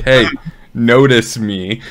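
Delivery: slow, gentle nudge; coaxing pet voice. Acted. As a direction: coax a pet into noticing you. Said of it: "nudge a pet to be like".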